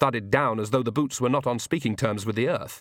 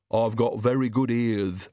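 slow, odd-timbred lisping servant; lightly voiced hunched servant; Igor servant voice. A narrator's reading.

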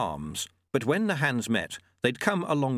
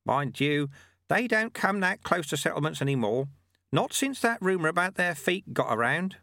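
put-on raised, calm old sweeper; old monk voice; 7 semitones higher than usual. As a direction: voice the sly old monk lightly. Narrator voices Lutze.

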